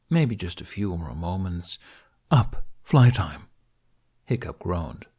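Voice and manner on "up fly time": loud, slow wake-up call; hearty dragon rousing his rider; eager wake-up call. A narrator's reading. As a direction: boom it out to drag him from bed.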